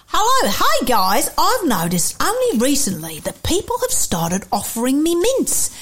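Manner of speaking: lively put-on Australian accent. Host reading a listener's question about mints, Australian accent. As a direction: read the letter like an Australian. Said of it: "I'm reading in an Australian accent".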